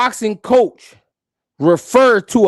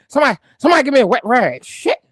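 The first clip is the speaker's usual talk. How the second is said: quoting the coach; 3 semitones higher, faster than usual. Retold or imitated. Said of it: "He said".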